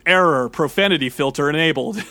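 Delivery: a hint of a flat machine announcement; lightly voiced robot system. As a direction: read it like a computer warning. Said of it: "the ball goes".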